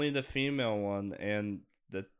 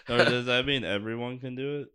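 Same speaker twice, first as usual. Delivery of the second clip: laughing; 6 dB louder than usual. Real, not acted. Laughing at the joke.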